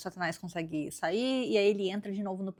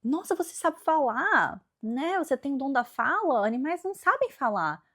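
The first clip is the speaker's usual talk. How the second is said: amazed Eve; 7 semitones higher, 4 dB louder than usual. Retold or imitated. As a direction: marvel at a talking animal. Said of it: "Aí ela fala".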